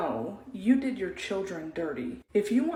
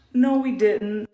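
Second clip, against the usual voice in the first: louder, firm and indignant; emphatic loud no; 3 semitones higher, 10 dB louder, slower than usual. Real, not acted. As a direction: slam the answer down hard. Answering her own rhetorical question.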